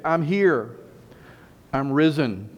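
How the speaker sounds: slow, drawn-out proclamation; emphatic announcement. Acted. Jesus appears among his disciples, emphatic announcement. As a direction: proclaim it to the room with weight.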